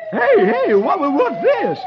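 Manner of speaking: high startled fox, slow; a fox caught off guard; surprised Brer Fox. Acted. Brer Fox voiced in story.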